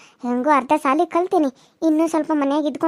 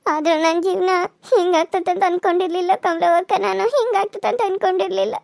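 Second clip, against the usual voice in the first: tearful; 3 semitones higher than usual. Acted. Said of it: "ಅಳ್ಬೇಡ ಸುಮ್ನಿರ್ ಗೀತಾ".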